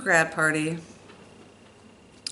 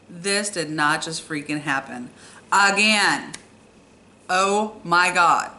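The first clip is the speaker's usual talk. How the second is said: exasperated disbelief. Retold or imitated. Driver to passenger after second crash, exasperated disbelief. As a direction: retell your disbelief, leaning hard on the last words.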